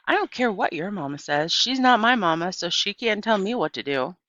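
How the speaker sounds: put-on angry girl shouting at a boy; defiant shout. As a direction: snap back hard, top of the lungs. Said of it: "I shouted at Steve, Stevie".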